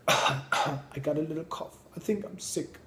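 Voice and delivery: high, hammed-up self-pitying moan; mock a grown-up sure a cough means death; mock whining adult. Mocking grown-ups' hypochondria.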